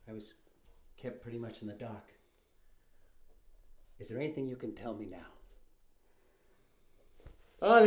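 low, quiet, hushed confession; a nervous brother whispering his excuses; Fredo in the boathouse scene. Acted. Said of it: "can do the whole boat scene from The Godfather".

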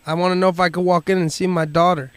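a hint of a muddled Bob; Bob on prank call. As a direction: pester the secretary as Bob.

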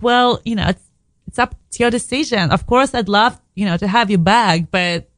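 a hint of a caring partner giving in; Ronnie relenting. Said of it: "But then he's like".

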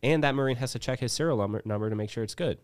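worked-up venting at leadership; heated rant. Retold or imitated. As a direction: hammer the point home. Heated retelling to the gunny.

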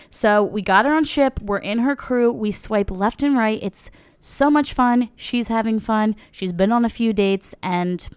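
upbeat sponsor read voice. Acted. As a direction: read it like a podcast ad. Ad read testimonial.

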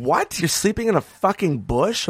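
high, slow disbelief; incredulous club staff. Retold or imitated. Club manager shocked at the comedian sleeping in a bush, high incredulous. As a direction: pitch it up in shock. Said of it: "And they were like".

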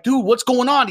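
high, loud imitation of a baffled colleague; urgent disbelief. Running colleague questions the dog handler, high urgent disbelief.

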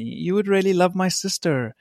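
put-on American accent. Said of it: "Is that your American accent?".

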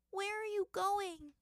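put-on high, slow tearful little-girl question; girl tearfully asking her parents. A narrator's reading. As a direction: ask through tears. Crying girl asks.

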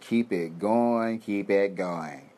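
slow, drawn-out mock gloat; gloating media. Media voice drawn out slowly, savouring the ratings. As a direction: stretch it out like a smug newsroom. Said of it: "And the media is like".

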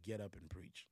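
whispered command from God; God whispering in a dream. Retold or imitated. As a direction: breathe the call softly. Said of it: "where he said".

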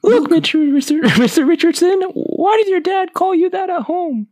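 very high-pitched mock Spanish accent; comic teacher with a high, hammy Spanish accent; attempted Spanish accent. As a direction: squeal it in a put-on Spanish accent. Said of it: "do a Spanish accent".

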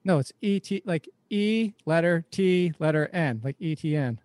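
E T N said as three spelled letters, "ee-tee-en"; letter-by-letter pronunciation. Shown as a demonstration. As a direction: spell out "E T N" as the way to say the name. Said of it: "How, how do you pronounce".

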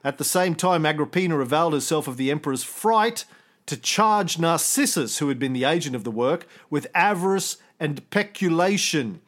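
put-on measured reading of an old text; reading aloud. Host reading the ancient source aloud, measured. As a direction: read the passage out steadily. Reads out Tacitus passage.

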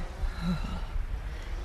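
long, unvoiced shuddering exhale; breathy shudder without words; shuddering breath. A narrator's reading. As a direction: let out a soft, shuddery sigh. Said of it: "He shuddered".

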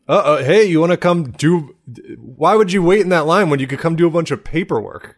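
a lightly voiced pushy pitch; mock Clear salesman. Clear rep luring travelers, hammed-up sales pitch. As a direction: pitch it like an eager airport rep. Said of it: "to be like".

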